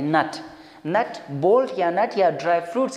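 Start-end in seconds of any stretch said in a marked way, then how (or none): 0.0-0.3 नट said with a short uh vowel like nut; common mispronunciation. Shown as a demonstration. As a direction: say नट as nut, the usual slip. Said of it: "इसका spelling फिर इस तरह आता है".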